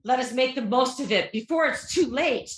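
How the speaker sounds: lightly hammed-up stage line; stage recital. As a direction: declaim like an actor onstage. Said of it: "I got another one".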